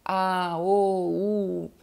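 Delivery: drawn-out "a", "o", "u", one by one; sustained single vowels, evenly spaced; isolated vowel sounds. Shown as a demonstration. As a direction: demonstrate each vowel as a long, separate sound. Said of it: "primeiro som".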